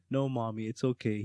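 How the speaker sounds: soft, subdued imitation of a crying boy; retold sad child. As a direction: quietly play the son giving in to mommy. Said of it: "crying and be-, getting sad".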